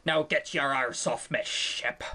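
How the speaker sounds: put-on a lightly growled pirate accent, low and slow; a hint of a gruff pirate captain ordering her off; lightly voiced pirate captain, slow and low. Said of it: "when you're speaking like a pirate".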